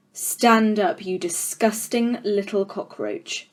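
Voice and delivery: loom over the class, mildly menacing; a hint of a contemptuous headmistress; stern headmistress. Trunchbull commands Matilda.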